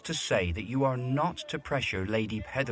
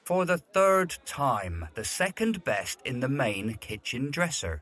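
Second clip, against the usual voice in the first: exasperated. Acted. Butler losing patience with the footman. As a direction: spell it out to a dim servant.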